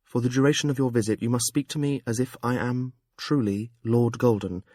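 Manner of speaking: lightly voiced, no Jamalian accent; a gentler, lighter persona; Amber's lighter voice. Amber explaining herself to Jekk, lighter voice. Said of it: "lighter and devoid of any Jamalian accent".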